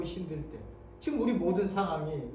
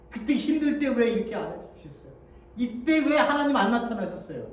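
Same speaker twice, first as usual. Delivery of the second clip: louder, higher protest at God; mild raised reproach; aggrieved complaint; 5 semitones higher, 4 dB louder than usual. Retold or imitated. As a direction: demand why God stayed away.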